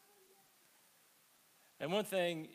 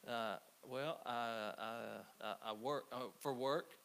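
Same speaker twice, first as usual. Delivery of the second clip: halting, mildly nervous stammer; a touch of nerves, stammering at normal volume; hesitant stammer. Retold or imitated. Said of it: "he can tell I'm nervous".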